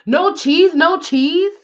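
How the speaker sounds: high, repeated mock shout; mock yelling. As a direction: keep yelling it in disbelief. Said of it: "He continued yelling".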